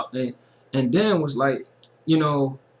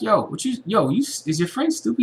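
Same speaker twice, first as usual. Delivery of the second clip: high put-on woman's taunt; woman on Dan's lap mocking Forrest, mock high; mock harlot taunt; 8 semitones higher than usual. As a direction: tease in a raised mock voice. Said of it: "was like".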